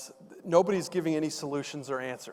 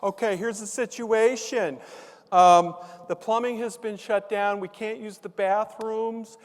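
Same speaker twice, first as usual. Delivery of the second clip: higher-pitched, measured mock-official address; assistant's announcement; 5 semitones higher than usual. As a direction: imitate a school assistant informing the whole crowd. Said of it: "so Nancy, she comes out of nowhere".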